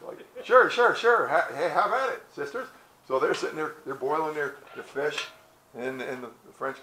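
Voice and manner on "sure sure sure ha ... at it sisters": high, loud, hammed-up eagerness; eager agreement. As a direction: fall over yourself to oblige. Voices Frenchmen eager to please girls.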